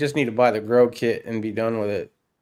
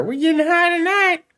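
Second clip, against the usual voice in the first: goofy stoner voice; 3 dB louder than usual. Retold or imitated. Voices the UPS workers' joy.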